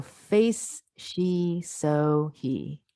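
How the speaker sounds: face, she, so, he with just air on the fricatives; airy model of each word; unvoiced fricatives demo. Shown as a demonstration. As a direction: breathe out the f, sh, s, h. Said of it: "the unvoiced is just air coming out".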